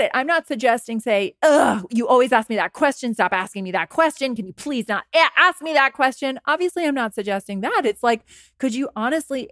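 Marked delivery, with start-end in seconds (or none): 1.4-6.4 defensive irritation. Acted. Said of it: "get defensive".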